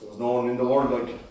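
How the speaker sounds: low, soft remembering; quiet longing. Acted. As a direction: murmur it, lost in memory. Quiet first take.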